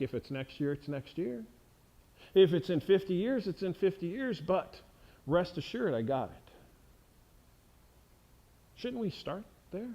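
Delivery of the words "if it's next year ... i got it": calm God. Retold or imitated. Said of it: "imagine God being like".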